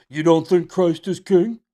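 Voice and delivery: loud accusing retort "You don't think Christ is king?"; mocking retort. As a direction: throw it back as a gotcha. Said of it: "fire back with".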